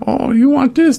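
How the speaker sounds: a short, high mock Asian accent question. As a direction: jump way up into a caricatured Asian accent. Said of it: "they call it fresh off the boat".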